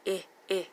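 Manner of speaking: "I, I" as brief ih, ih; short I sound. Shown as a demonstration. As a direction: say "I, I" as two separate vowels from pig. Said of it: "The short I".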